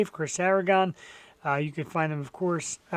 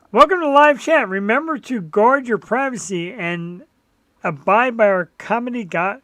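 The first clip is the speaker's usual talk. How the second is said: high, loud announcer read; 4 semitones higher, 6 dB louder than usual. Pretend. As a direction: read it like a system notice. Reading YouTube chat notice.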